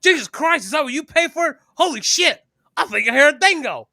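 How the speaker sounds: a loud, badly faked Aussie mate; butchered Aussie accent. Australian friend replying about data prices, hammed-up loud Aussie accent. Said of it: "Here's a butchering of it".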